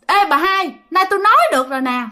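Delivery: high ghostly hail, quick at the end; high call to the grandmother; possessed medium. Acted. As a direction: call out as the spirit speaking through a medium. Storyteller repeats the ghost's call.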